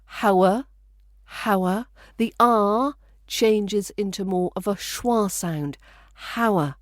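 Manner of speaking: How are said as hower, r turned to a schwa; hower, with a schwa ending; linked hower. Shown as a demonstration. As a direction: blend How are into one word, hower. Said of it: "will sound like".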